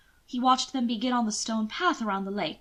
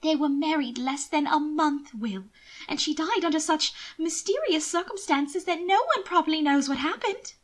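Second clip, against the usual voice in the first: a worried sister pleading; higher lady's urgent warning; 7 semitones higher than usual. Acted. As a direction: press the danger on him. Mina's gossip.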